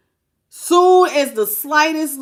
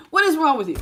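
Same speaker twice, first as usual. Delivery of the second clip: laughing; 3 semitones higher, faster than usual. Real, not acted. Repeating her own scolding, laughing it out. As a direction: crack up while repeating the question.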